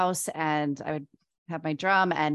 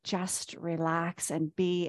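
soothing; 3 dB quieter, slower than usual. Retold or imitated. Higher self soothing her.

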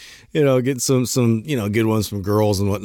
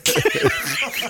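super excited; 3 semitones higher than usual. Retold or imitated. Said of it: "The guy's just getting, like, super excited".

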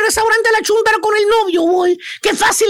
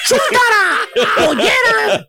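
very drawn-out jeering call; mocking call; 2 semitones higher, much slower than usual. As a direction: stretch the nickname out like a taunt. Mocking her with a nickname.

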